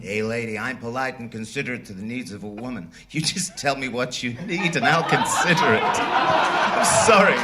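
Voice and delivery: light mock Italian accent as Chico; Chico Marx. Chico answers the quizmaster in mock Italian accent. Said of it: "what about Chico over here?".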